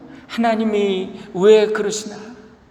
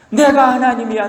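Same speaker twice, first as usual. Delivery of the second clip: 내가 하나님이야 said louder, pushed up on 내가; emphatic declaration; 6 semitones higher, 4 dB louder than usual. Acted. God asserting himself to Job, loud emphatic declaration. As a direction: declare it firmly, stressing 내가. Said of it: "하나님 말씀하시기를".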